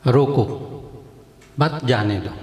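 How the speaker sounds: "रोको", clear pause, then "मत जाने दो"; pause after रोको. Shown as a demonstration. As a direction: stop after रोको and keep मत joined to जाने दो. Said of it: "एक दफ़ा एक जगह रुकूँगा". (रोको पर वक्फ, फिर "मत जाने दो")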